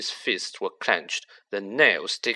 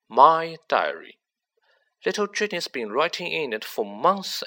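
Riddle, cold and smug. Acted. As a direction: let a cold confidence creep in under a light voice. Riddle's voice in the story.

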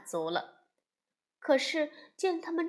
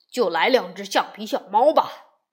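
embarrassed; 2 semitones lower, 9 dB louder than usual. Acted. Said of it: "熊爸爸尴尬极了".

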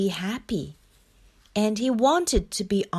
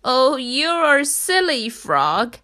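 loud, amused storybook voice; acted mirth, starting high; amused Rat; 5 semitones higher, 6 dB louder, slower than usual. A narrator's reading. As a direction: tease loudly, high then dropping on the name. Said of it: "Rat burst out laughing".

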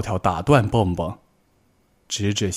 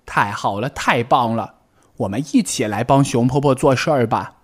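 higher, cheerful rabbit voice; happy; 3 semitones higher than usual. Acted. Tiaotiao to Bengbeng, happily agreeing to help. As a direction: bounce with delight at the idea. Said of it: "跳跳高兴地说".

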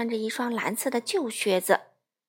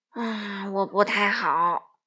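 smiling; 3 semitones lower, much slower than usual. Acted. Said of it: "稻草人微笑着说".

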